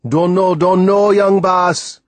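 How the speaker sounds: high, loud anxious reply. A narrator's reading. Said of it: "Timothy replied anxiously".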